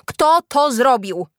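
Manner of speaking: slow, loud, high question; demanding shout. A narrator's reading. Teacher questions the children, shouting. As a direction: demand it loudly, drawing it out. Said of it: "krzyknęła".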